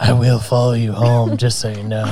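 creepy guy voice. Retold or imitated. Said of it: "That's my creepy guy voice".

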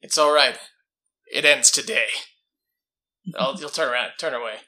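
loud, firm in-character vow; resolute declaration. Acted. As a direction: declare it loudly. Player voices resolute character.

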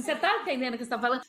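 fast, tumbling disbelieving question; rushed disbelief. Retold or imitated. Stunned employee questioning the boss's offer, rushed. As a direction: rattle it off in alarm. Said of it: "Eu falei assim".

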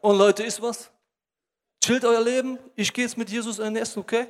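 a hint of a smug show-off; cocky show-off. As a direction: brag to the crowd. Zachäus showing off to crowd.

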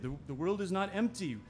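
earnest spoken-out affirmation; said out loud. Acted. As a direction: declare "world is not empty" with a lifted voice. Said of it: "I say this out loud".

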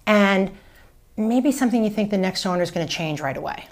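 upbeat, welcoming script line; an agent demoing her favourite open house reply; friendly agent script. Shown as a demonstration. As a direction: pitch it like you greet every visitor. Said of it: "I say".

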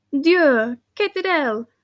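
startled outburst, voice lifted; shocked cry. A narrator's reading. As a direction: cry out in French, aghast. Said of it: "cried Hortense".

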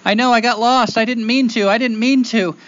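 high-pitched whimpering boy, acted; tearful pleading. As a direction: plead like a lost child near tears. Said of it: "begins to cry, and he says".

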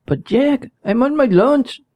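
high, whiny put-on Hispanic accent; mock Hispanic accent. Worker begging the boss for lunch in a mock Hispanic accent. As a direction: plead like a lazy worker in a bad Hispanic accent. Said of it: "I don't know what kind of accent that was".

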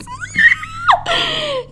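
piercing high laughing screech; pterodactyl shriek. Real, not acted. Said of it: "I just pterodactyl screeched".

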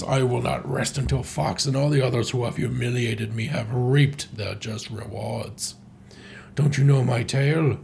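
lightly acted villain monologue; measured, theatrical telling of a grudge; Andros. Villain tells captive his revenge tale, mild theatrical menace.

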